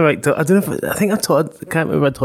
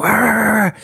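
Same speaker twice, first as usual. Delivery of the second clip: dog barking; 6 semitones higher than usual. Retold or imitated. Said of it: "He's like".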